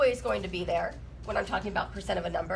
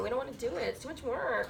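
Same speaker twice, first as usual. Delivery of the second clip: whiny, complaining tone; 4 dB quieter than usual. Pretend. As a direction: whine like a bored student. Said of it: "Is that the perfect whiny voice?".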